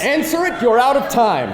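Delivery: rushed shout. Acted. Pressing for rushed answer.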